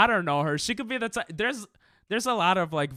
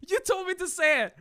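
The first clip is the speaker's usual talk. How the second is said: much higher, put-on whiny voice; whiny mock protest; 5 dB louder than usual. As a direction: whine it like a kid caught out. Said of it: "I'm like".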